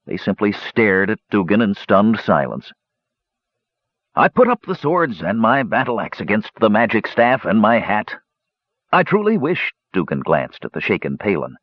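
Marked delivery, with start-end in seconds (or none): 4.1-9.7 lightly voiced, self-excusing dwarf; a hint of a sheepish dwarf; sheepish dwarf gambler. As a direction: plead your case, rising on the excuses. Dwarf continues his confession.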